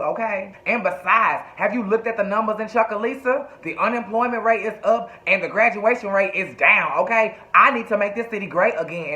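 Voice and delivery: mildly heated retold telling-off; chewing him out. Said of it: "was chewing Andre's ass out".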